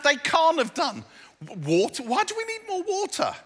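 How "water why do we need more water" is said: baffled servants. Pretend. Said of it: "Did they understand?".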